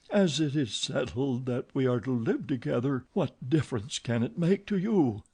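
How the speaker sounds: put-on girl coaxing her captor; Christine's voice. Christine gently arguing with Eric.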